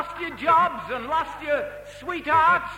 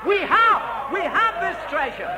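preaching climax; 4 semitones higher, 5 dB louder than usual. Real, not acted. Preaching climax repeats have.

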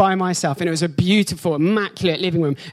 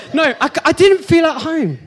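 laughing through it; 5 semitones higher, 4 dB louder than usual. Real, not acted. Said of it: "laughing while preaching".

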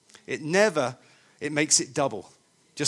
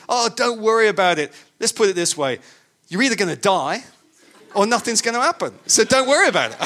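imitated German lady, higher-pitched, punchy accent; Germanic accent; 4 semitones higher, 5 dB louder than usual. German passenger reassuring seatmate on bumpy flight, Germanic accent. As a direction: retell it in a mock German accent. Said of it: "in her Germanic accent".

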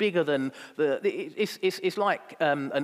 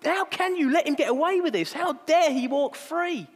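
the world protests to the master, outraged; outraged disbelief; 13 semitones higher, 4 dB louder than usual. Retold or imitated. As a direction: protest at the injustice. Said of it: "The world would have been saying".

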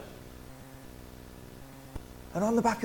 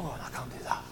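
much lower, much softer hesitant mumble; mock timid voice; 10 semitones lower, 15 dB quieter than usual. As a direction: play the shy doubter backing away. Mocking a timid churchgoer.

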